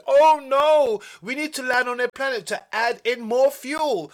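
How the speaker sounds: high, loud cry of alarm; startled yell of Oh no!; alarmed shout. Acted. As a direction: sound the alarm about fuel. Sudden ship trouble alarm.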